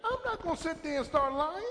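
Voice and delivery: high, fast, insistent; quick, lifted protest; excited declaration. Real, not acted. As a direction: swear off lying with energy. Preacher declares his honesty.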